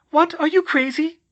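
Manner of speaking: very high, loud, incredulous cry; panicked, disbelieving question; alarmed disbelief. Acted. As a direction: yell back in alarm. Alarmed reply during broom chase.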